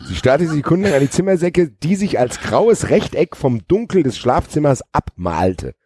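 dramatic novel reading; theatrical story narration. A narrator's reading. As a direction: read it with exaggerated suspense. Rereads the sentence theatrically.

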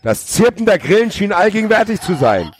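high, strained over-dramatic reading; hammed-up narration. A narrator's reading. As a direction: declaim it with mock grandeur. Mock-dramatic reading of overblown prose.

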